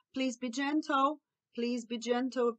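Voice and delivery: slow, tender coaxing; gentle request. Shown as a demonstration. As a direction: coax a child slowly and kindly. Models gentle replacement phrase. (pedido calmo e carinhoso)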